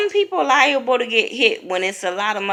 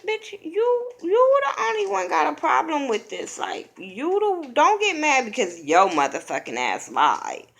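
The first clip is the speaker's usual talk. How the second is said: retold housemates snapping back, pitched up high; high mocking confrontation; 9 semitones higher than usual. Housemates telling Megan she lied, high and mocking.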